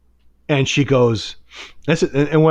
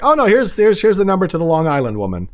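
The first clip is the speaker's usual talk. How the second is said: higher-pitched imitation of a dismissive psychic; mock breezy brush-off; 6 semitones higher than usual. Client mimicking the psychic sending him away, mock breezy. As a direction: mimic someone airily passing the client along.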